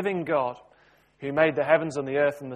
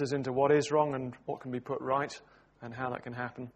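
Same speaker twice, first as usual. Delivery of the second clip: low-key prayer, softening towards the amen; spoken prayer; 3 semitones lower than usual. Real, not acted. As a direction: address God simply, voice dropping away at the close. Leads a prayer.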